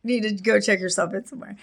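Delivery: high, fast, laughing mock scolding; laughing teasing friend. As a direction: tease her through laughter. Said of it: "And he was like".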